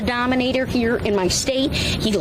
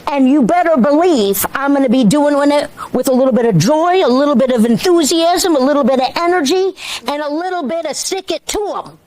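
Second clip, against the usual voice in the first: louder, punchy campaign speech voice; rally speech; 6 dB louder than usual. Real, not acted. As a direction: sell it to the crowd with energy.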